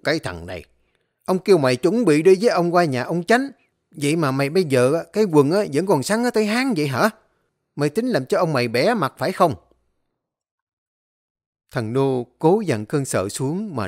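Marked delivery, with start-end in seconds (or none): 0.0-9.5 louder, faster scolding tirade; angry scolding. Acted. Master scolding his servant for his rolled-up trousers, angry. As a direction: tear into the servant. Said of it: "ông quát".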